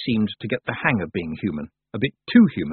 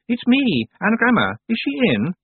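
hissed; 13 semitones higher, 4 dB louder than usual. A narrator's reading. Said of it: "a voice hissed".

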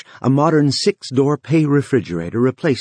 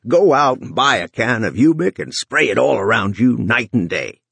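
dark voice. Acted. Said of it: "Runciter's dark voice resumed".

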